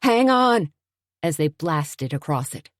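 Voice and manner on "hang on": loud, higher warning cry; urgent cry. A narrator's reading. Suzanne warning Tony as they hit the bridge, crying out. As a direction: brace your friend for the bridge. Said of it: "she cried".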